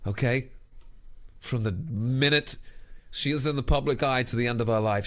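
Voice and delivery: normal talking voice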